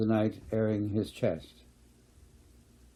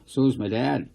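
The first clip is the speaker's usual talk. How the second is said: defensively; 3 semitones higher, 3 dB louder than usual. Acted. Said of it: "said Brian defensively".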